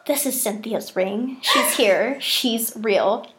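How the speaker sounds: slow, hushed and spooky; a child sure the ghost is real; awed hush. Retold or imitated. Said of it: "And I was like".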